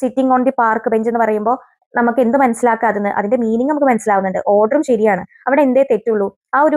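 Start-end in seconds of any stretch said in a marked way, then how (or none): 0.0-1.1 slow example. Shown as a demonstration. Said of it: "morphological തെറ്റാണ് ഇവിടെ വരുന്നത്".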